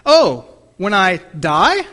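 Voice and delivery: slow, loud "Oh, when I die?" rising in question; teen checking what's meant by "when I die?"; puzzled boy. Retold or imitated. Boy to pastor, a puzzled question. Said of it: "the young boy replied".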